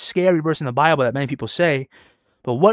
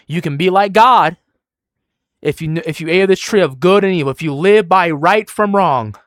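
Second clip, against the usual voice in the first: forceful preaching; 4 semitones higher, 7 dB louder than usual. Real, not acted. Preacher quoting Satan to Adam and Eve, forceful preaching. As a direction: drive each phrase home loudly.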